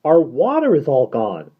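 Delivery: high, loud desperate plea; frightened girl pleading; desperate cry. Acted. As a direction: cry out that they will die. Derna pleads.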